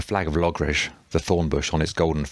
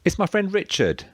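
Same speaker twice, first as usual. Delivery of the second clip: high, sustained call in reply; calling back. A narrator's reading. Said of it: "Thomas called back in Brythonic".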